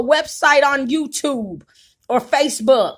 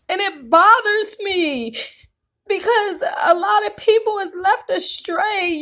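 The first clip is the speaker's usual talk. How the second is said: crying; 3 semitones higher than usual. Real, not acted. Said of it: "I'm sorry for crying".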